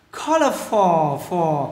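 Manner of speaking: slow colorful, weight on the first syllable; first-syllable stress. Shown as a demonstration. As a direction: stress COL in colorful, draw it out. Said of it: "nhấn âm đầu các bạn nha". (colorful, nhấn âm đầu, đọc chậm)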